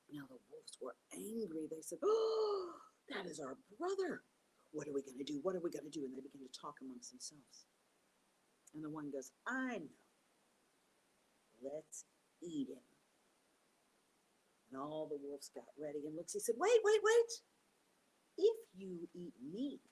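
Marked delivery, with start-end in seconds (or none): 2.0-6.0 grieving wolves. Acted. Wolves find their brother's ears. 9.4-12.8 scheming wolf. Acted. A wolf proposes eating Turtle. 16.6-19.8 much higher, louder, slow frantic plea; high squeaky pleading cry; panicked Turtle. Acted.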